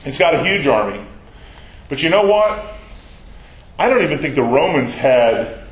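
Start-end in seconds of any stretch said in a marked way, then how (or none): none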